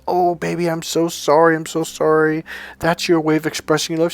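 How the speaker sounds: retold cooing apology; apologetic. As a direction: reenact a contrite boyfriend backing down. Acts out his apology to girlfriend.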